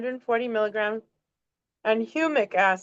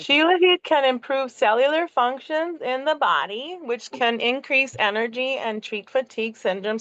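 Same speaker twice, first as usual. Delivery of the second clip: lightly put-on reading with a swooping tune; playful, mildly odd read-aloud voice; weird reading voice. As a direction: read the facts lightly in somebody else's voice. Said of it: "read in weird, different people's".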